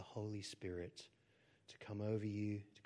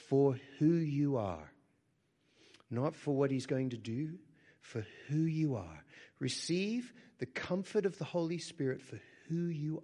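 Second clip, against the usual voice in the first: loud, higher, impassioned; fervent proclamation; 6 semitones higher, 8 dB louder than usual. Real, not acted. Preacher proclaiming God's acceptance, impassioned. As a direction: ring it out with conviction.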